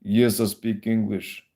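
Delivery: slow, grudging, unwilling answer; grumpy clerk tone. Retold or imitated. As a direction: drag it out like a bored, unfriendly clerk. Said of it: "just the tone is like".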